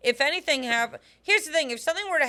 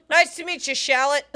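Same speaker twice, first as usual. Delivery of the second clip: laughing; 3 semitones higher, 4 dB louder than usual. Retold or imitated.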